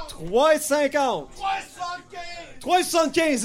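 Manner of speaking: shouted bids. Real, not acted. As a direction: call each bid out to the crowd. Auctioneer shouting rising bids. (enchères criées fort)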